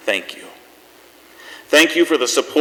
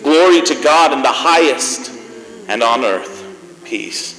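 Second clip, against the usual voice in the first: solemn, measured reading of the nativity passage; scripture reading. Acted. Host reads scripture to close the show, solemn and measured. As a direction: read it like a Christmas Eve lesson. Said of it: "I have something here I'd like to read".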